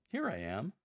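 "Here" punched, declared like an exclamation; stress on here. Shown as a demonstration. A lector declaring God's answer, stress on "Here". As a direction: declare it, leaning hard on "Here". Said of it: "strongly emphasizing "here".

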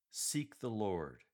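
slow, firm and confident reading. Shown as a demonstration. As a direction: state it firmly, drawing the words out. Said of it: "firmly and confidently".

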